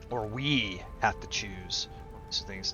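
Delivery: soft whispered aside; whispering. Real, not acted. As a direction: whisper it to yourself. Aside while choosing option.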